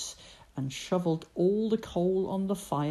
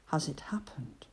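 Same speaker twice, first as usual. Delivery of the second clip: hushed; 3 semitones lower, 6 dB quieter, faster than usual. Acted. Ben asks why quietly.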